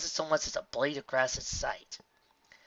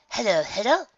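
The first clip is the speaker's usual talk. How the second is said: high, louder sing-out hello; bustling mare's greeting; 11 semitones higher, 8 dB louder than usual. Acted. Mayor greeting visitors at her trailer, bright rustic call. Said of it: "a trace of bovine in her accent".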